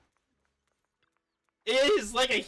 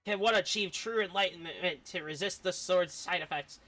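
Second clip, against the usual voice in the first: a hint of playful bickering voices; lightly voiced bickering characters; 5 semitones higher than usual. Streamer reading two characters arguing, lightly acted. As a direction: read both sides like a squabble. Reads character dialogue aloud.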